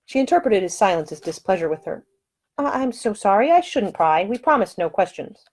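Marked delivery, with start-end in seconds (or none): 2.6-5.5 a proper lady, lightly voiced, scolding; high-voiced prim woman, firm and offended; indignant lady. Woman apologizes.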